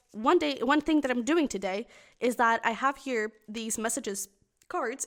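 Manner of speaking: talking through a burp; words broken by burping. Real, not acted. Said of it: "Excuse me, I'm burping a lot".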